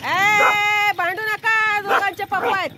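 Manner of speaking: loud, high scolding call. Real, not acted. Telling squabbling pets to stop fighting, calling out.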